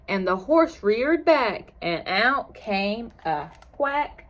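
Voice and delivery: lilting picture-book narration; reading to children. A narrator's reading. Teacher reads a farm story to children, lilting. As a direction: read the rhyme aloud with a gentle swing in pitch.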